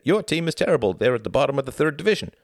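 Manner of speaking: mild mock taunt, speeding up; taunting boy. Tom retells a boy mocking his team, taunting. Boy's taunt retold in the story.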